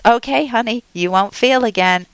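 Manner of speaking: lightly voiced comforting inner voice; mild mock-tender reassurance; soothing subconscious. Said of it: "And our subconscious listens to us and says".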